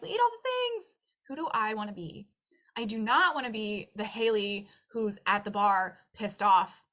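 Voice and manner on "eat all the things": high, squealy craving voice; much higher mock craving brain; greedy brain voice. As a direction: let the brain beg for everything. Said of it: "my brain starts freaking out".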